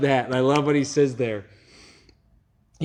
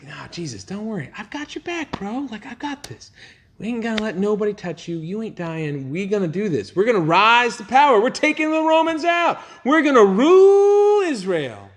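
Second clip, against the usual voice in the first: cocky bro; 8 semitones higher, 4 dB louder than usual. Retold or imitated. Peter boasting to Jesus.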